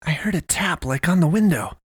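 high-pitched urgent report. A narrator's reading. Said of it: "Tyler said urgently".

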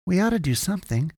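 high, quick plea; urging. A narrator's reading. Boy urging his friend to help, pleading.

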